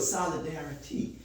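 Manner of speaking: solidarity spoken low and soft in separate syllables; sounded-out solidarity. Shown as a demonstration. Teacher asks the class to listen, sounding out solidarity. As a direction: let them hear each part of solidarity. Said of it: "listen to it".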